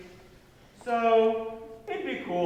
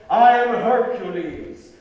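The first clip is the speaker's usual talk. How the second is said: dark lord; 7 dB louder, slower than usual. Acted. Boy proclaims himself Hercules.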